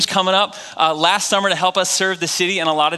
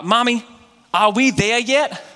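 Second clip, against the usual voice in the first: put-on child voice; 6 semitones higher, slower than usual. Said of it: "something like this".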